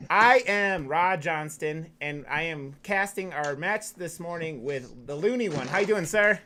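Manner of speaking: upbeat broadcast opener; esports caster. Acted. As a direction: welcome viewers like a caster.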